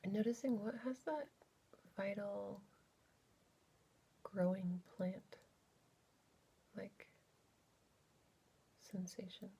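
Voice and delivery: unhurried, exploratory guided body scan; guided meditation. Real, not acted. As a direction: gently lead listeners inward, leaving space between phrases.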